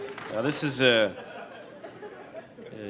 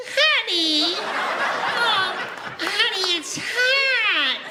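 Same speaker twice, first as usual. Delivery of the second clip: extreme falsetto; much slower than usual. Shown as a demonstration. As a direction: shriek it in a tiny falsetto. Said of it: "and you go".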